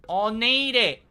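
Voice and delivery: loud and high, panicked hunt for the key card; frantic shouting. Real, not acted. Gamer yelling at teammates for the key card, frantic. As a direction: yell for the missing key card, desperate.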